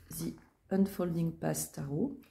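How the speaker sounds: put-on a light, joking English accent on the tarot deck's name; self-mocking English accent. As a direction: poke fun at her own English accent on "The Unfolding Path Tarot". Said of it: "avec mon super accent anglais".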